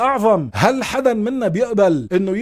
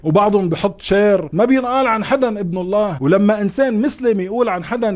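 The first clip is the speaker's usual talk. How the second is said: normal talking voice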